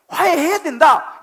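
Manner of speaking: 화해해야 된다 hurled out as a command; preached loud. Acted. Shouted command in sermon.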